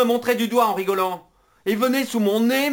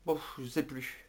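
much softer, giving up; defeated mumble; 7 semitones lower, 15 dB quieter than usual. Acted. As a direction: trail off resigned. Defeated mutter.

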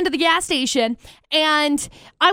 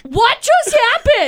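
higher, louder, slowed stunned question; stunned disbelief; 6 semitones higher, 4 dB louder, slower than usual. Retold or imitated. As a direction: ask it as if you can't believe your eyes. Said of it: "And I was like".

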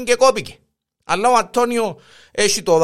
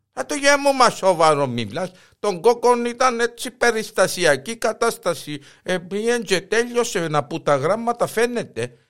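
put-on dismissive old wife; 3 semitones higher than usual.

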